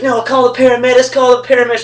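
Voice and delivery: imitating a demanding friend in pain. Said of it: "He's like".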